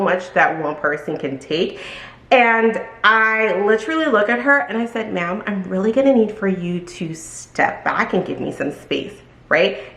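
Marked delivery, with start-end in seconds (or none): 5.1-9.1 nice voice. Retold or imitated. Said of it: "That was, like, my nice voice".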